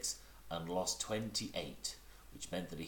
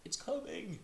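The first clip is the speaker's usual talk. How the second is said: very high, eager squeak; excited Piglet. Acted.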